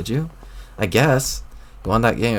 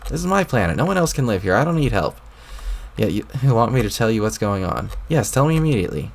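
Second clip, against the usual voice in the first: put-on irritated troll boy. A troll boy talking back to the voice in his head, irritated.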